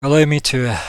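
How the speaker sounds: loud, puffed first words from a winded fighter; out of breath. Acted. Roman introducing himself after the fight, out of breath. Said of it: "as he's a bit out of breath".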